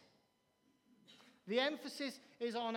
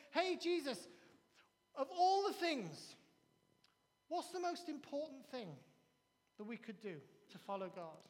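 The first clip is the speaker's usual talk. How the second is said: questioning scribe; 3 semitones higher than usual. Retold or imitated. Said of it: "this scribe says".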